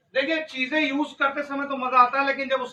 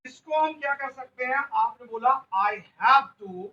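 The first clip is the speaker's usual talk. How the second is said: loud urging; 4 dB louder than usual. Real, not acted. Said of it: "teacher urging class loudly".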